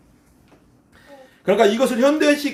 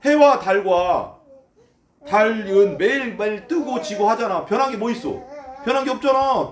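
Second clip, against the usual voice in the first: sneering; 3 semitones higher than usual. Acted. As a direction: drag out the endings as a scoffer. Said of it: "이렇게 말한다는 거예요".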